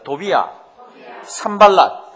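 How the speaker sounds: a loud, full-voiced call of 산발랏; loud call to repeat. Shown as a demonstration. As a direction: shout the name out for the crowd to echo. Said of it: "한번 따라하십니다".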